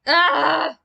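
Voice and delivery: high drawn-out wail; anguished cry. Real, not acted. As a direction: cry out in dismay. Game mishap, shouting in dismay.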